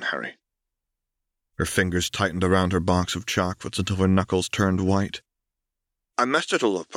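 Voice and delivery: a hint of a girl asking a question she fears; Katie, pleading. Katie voiced by narrator.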